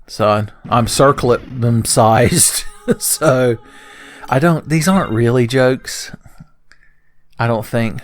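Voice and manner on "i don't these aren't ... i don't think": whispered aside. Real, not acted. Aside about his own puns.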